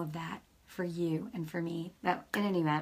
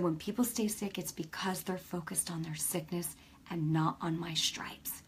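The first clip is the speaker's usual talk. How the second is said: softer, dropping to a whisper; hushed; 3 semitones lower, 8 dB quieter than usual. Retold or imitated. The Holy Spirit answers her in bed, hushed to a whisper. God's reply voiced in awe.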